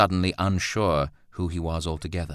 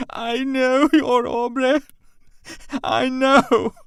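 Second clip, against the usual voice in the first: high, slow, louder desperate cry; cling to it as you fall apart; breaking down, sobbing; 7 dB louder, much slower than usual. A narrator's reading. Mother clutching Roland's lapel, crying out desperately. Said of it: "disintegrating, sobbing".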